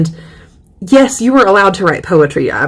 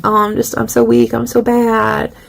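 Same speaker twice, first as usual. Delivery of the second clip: higher, put-on humility; mock self-deprecation; 4 semitones higher than usual. Poet belittling her own talent, mock self-deprecation. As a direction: put yourself down in a raised voice.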